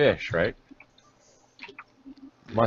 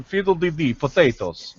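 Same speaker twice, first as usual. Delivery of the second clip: mock stage Irish; 5 semitones higher than usual. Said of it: "how do I think I am Irish?".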